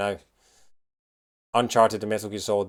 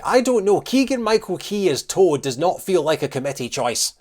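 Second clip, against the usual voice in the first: high, loud, incredulous outburst; voice shooting up; 6 semitones higher, 5 dB louder than usual. Real, not acted. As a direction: pitch jumps up in real disbelief. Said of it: "my voice went up, like, three octaves".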